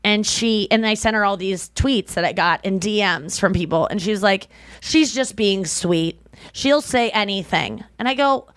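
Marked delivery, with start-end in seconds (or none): 4.8-7.8 mom impression. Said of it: "I'll do my mom's impression".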